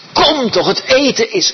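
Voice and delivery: put-on high, loud call to a child outside; calling mother. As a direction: call the kid in for dinner.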